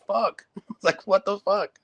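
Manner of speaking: high, exasperated mock disbelief; stunned disbelief. Teammate stunned that a kid pukes after one move, high exasperated. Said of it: "I was just like".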